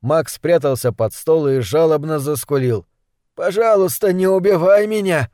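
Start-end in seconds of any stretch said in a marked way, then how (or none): 3.3-5.3 high, whiny begging for mercy; whimpering plea. Acted. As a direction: whimper it, pleading for your life. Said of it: "хныкая попросил он".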